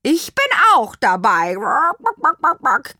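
high, loud, cheerful hen; cheerful crowing. A narrator's reading. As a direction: crow it happily. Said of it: "krähte Anaconda vergnügt".

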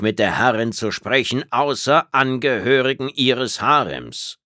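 kühl und von oben herab, langsam; herablassende Reptiloidin. Acted. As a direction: lass sie jede Silbe überlegen auskosten. Tretzab weist Phil herablassend ab. (herablassende Außerirdische, leicht angedeutet)

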